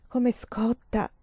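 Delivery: slow, alarmed exclamation; exclaimed. Acted. Mother feeling the fever, slow worried exclamation. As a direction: draw it out in worry. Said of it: "esclamò Emanuela".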